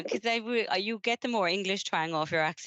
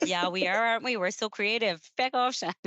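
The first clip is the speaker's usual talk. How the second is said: higher-pitched jokey boast, then playful dismissal; mock self-congratulation; 4 semitones higher than usual. Co-host joking about being an amazing nation, mock self-congratulation. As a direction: send up the boast in a raised voice.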